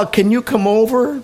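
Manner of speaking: put-on high little child's plea. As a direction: voice a small grandchild asking. Grandchild asking grandfather a question.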